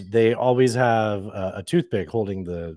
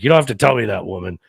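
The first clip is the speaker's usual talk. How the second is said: mock scolding; 6 dB louder than usual. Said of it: "I'll be like".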